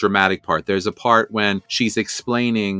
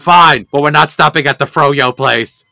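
Hordak; 4 semitones higher, 8 dB louder than usual. Retold or imitated. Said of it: "He's like".

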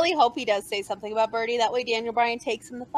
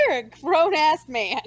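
laughing; 4 semitones higher, slower than usual. Real, not acted. Repeating while laughing.

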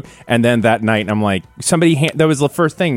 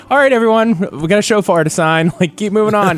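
raised pitch, herding a crowd along; mock announcement to move a queue; lightly acted calling out to everyone; imitated line wrangler; 9 semitones higher than usual. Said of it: "she would just be like".

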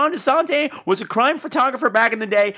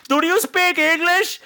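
mock Americans asking; 9 semitones higher, slower than usual. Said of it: "They come up to him like".

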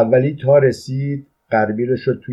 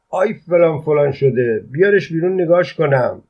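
higher-pitched playful telling-off; mock scolding; 6 semitones higher than usual. A narrator's reading. Driver turns to friend with hidden chick, mock scolding. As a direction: scold lightly, voice raised in pitch.

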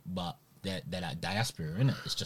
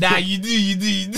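insistent shout; 7 semitones higher, 6 dB louder than usual. Real, not acted. Insisting friend has bandwidth.

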